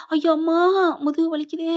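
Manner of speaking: hammed-up hurt moaning; acted pain. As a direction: groan out as the back gives way. Man falls with back pain.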